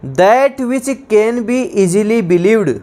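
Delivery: slow, deliberate definition; slow dictation. Shown as a demonstration. Teacher repeating a definition slowly to students. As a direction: read it slowly, word by word. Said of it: "dictating definition".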